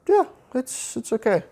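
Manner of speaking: a little emotional. Real, not acted. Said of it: "I'm gonna get a little emotional here".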